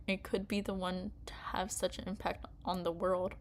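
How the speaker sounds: whispering. Acted. Whispered line in reading.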